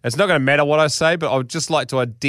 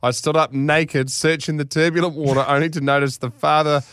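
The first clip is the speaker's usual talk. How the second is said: measured, theatrical read-aloud; deliberate storytelling delivery; story narration; 2 semitones higher than usual. A narrator's reading. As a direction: read it like a grand tall tale.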